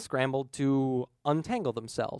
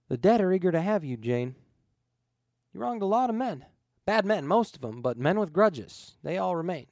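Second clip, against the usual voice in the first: menacing ghost; 6 semitones higher, 6 dB louder than usual. Acted. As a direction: let every word weigh on him.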